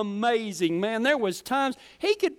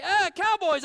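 excited onlookers; 8 semitones higher than usual. Retold or imitated. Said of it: "anytime somebody say".

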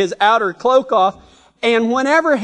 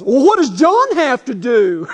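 mock complaint; 2 semitones higher, 3 dB louder than usual. Peter deflects like a complaining kid.

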